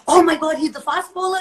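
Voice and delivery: retold amazement. Retelling how she realised who the cricketer was, acted amazement. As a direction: re-enact a sudden starstruck realisation.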